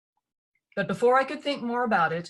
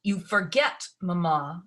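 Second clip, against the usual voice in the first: snapped; slower than usual. Acted. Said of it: "snapped Lucy".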